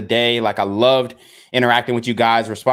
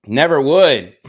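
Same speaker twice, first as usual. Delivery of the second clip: louder, firmer "Never would"; emphatic repeat; 5 dB louder, slower than usual. Real, not acted. Vlogger insisting to viewers he never would, louder and firm. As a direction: slam the denial down the second time. Vlogger denying he promotes violence.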